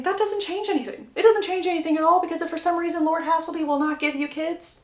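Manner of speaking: high, cartoonish grumpy old man voice, scoffing. Uncle scoffing at Lucy in a grumpy cartoon voice. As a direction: play a cranky cartoon uncle, dismissive. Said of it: "I cast him as a really grumpy old cartoon man".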